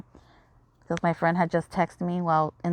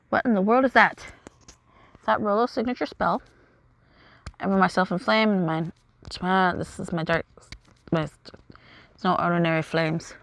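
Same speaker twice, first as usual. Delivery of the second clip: a hint of dramatic characters mid-battle; lightly voiced game dialogue. Heroes face Rolo's flames, lightly acted drama. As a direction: read the battle lines with mild drama.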